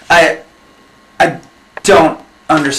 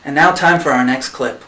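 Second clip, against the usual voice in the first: grudging. Acted. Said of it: "Let's go".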